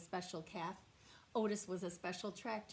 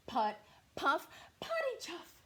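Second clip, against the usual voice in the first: tractor chugging; 8 semitones higher, 6 dB louder than usual. Acted. Tractor sound rises louder.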